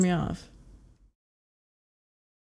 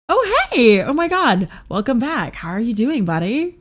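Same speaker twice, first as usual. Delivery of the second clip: high, sing-song voice for a pet; pet greeting; 7 semitones higher, 3 dB louder than usual. Real, not acted. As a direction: coo a happy welcome to the little buddy. Greeting pet coming back.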